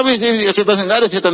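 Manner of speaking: high scornful brush-off; dismissive scoff. Retold or imitated. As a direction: wave the advice away with contempt. Angry man rejects advice. (ejekan tinggi meremehkan)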